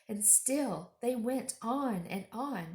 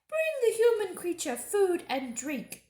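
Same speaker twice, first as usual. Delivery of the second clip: much higher, louder witch order; witch's command; 11 semitones higher, 7 dB louder than usual. Acted. Witch ordering her dwarf, imperious. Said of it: "she said".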